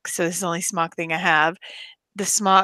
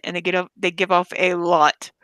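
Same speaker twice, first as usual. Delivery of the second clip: burping. Real, not acted. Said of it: "Excuse me, I burped".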